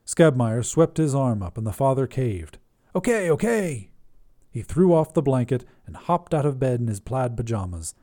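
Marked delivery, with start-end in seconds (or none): 2.9-3.9 giving in. Acted. Priest caves in.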